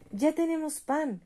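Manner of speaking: put-on children shouting that they finally have bread; children shouting for joy. A narrator's reading. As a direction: cheer it out like happy children.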